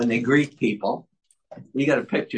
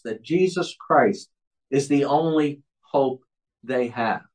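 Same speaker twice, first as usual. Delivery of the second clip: measured, emphatic pulpit delivery; prepared sermon reading; 2 semitones higher than usual. Acted. Teaching the church why the law must be preached, emphatic sermon reading. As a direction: read it out with deliberate pauses and lifted key phrases.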